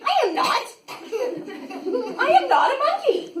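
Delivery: high, loud laughing denial; laughing protest. Real, not acted. Reader protesting the book to the kids, laughing. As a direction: insist through laughter you're not a monkey.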